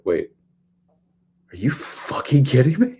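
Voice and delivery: high, loud disbelieving outburst with a laugh; incredulous. Retold or imitated. Nurse on the phone hearing about code black, incredulous. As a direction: laugh out the disbelief, pitch shooting up. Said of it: "she's just like".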